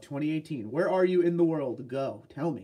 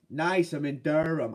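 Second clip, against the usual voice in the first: slow, attempted New Hampshire accent; unsure stab at a New Hampshire accent; slower than usual. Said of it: "New Hampshire accent there".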